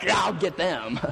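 grudging mock forgiveness with a hidden threat; mock passive-aggressive. Preacher mimics someone forgiving while plotting revenge, mock passive-aggressive. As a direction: act lightly passive-aggressive. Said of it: "in this passive-aggressive manner".

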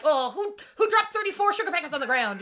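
high, loud exaggerated exclamation; mock character line. Host imagining an unsubtle TV character's line, hammed-up. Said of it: "His first line would have been".

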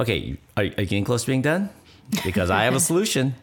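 fast, impatient mock voice. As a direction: hurry her up, itching to fix it. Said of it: "it's just like".

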